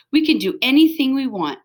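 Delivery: dog barking with glee; excited bark. Acted. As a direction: shout the freedom with joy. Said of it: "barked Stanley".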